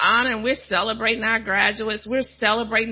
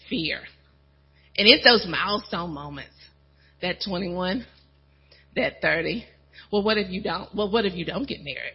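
normal talking voice

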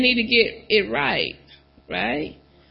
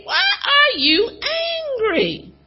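voice of God; much slower than usual. Acted. God questions Cain in sermon.

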